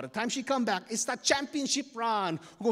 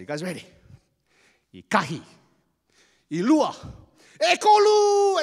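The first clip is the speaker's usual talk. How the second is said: referee countdown building to shout; 8 semitones higher, 10 dB louder than usual. Acted. Referee counting down race start.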